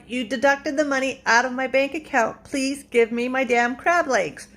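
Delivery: emphatic demand, slowing at the end; retold exasperation. Customer demanding crab legs already paid for, exasperated. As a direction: act out a fed-up customer's plea. Acted quarrel over the order.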